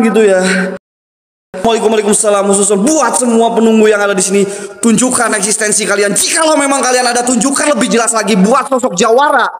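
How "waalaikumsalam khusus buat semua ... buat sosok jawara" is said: ritual summons. Acted. Ghost hunter solemnly calling out the spirits of the place. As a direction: challenge the ghosts to show themselves.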